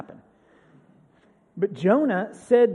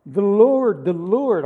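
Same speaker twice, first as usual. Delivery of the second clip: loud, ringing declaration; proclamation; 9 dB louder, slower than usual. Real, not acted. Preacher proclaiming God's name to the congregation, loudly. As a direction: announce it like a herald.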